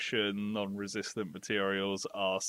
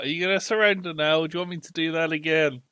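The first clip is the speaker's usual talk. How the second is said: loud, high-pitched shouting; 8 semitones higher, 8 dB louder than usual. In a game scene, speaker's character yells at two wounded guards: yelling a threat. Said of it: "And I yell".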